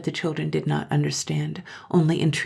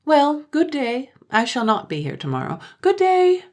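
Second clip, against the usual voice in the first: put-on girl's farewell; 10 semitones higher, 5 dB louder than usual. A narrator's reading. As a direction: bid goodbye like a teasing girl.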